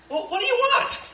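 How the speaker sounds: high laughing shouts; hammed-up shouting with laughter; mock outraged shout. Servants fighting, shouting.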